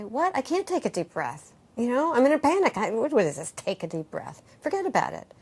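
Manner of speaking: panicked protest. Retold or imitated. Panicking client refusing the teacher's advice, exasperated. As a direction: protest that you can't breathe in a panic. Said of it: "you're gonna say".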